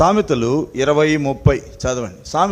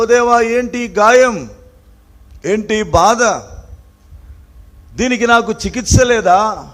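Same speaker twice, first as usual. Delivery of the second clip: high, raised cry of complaint; David; 8 semitones higher, 7 dB louder than usual. Retold or imitated. Preacher voicing David asking God about his wound, acted outcry. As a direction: plead upward in a ringing voice. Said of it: "అరుస్తా ఉన్నాడు".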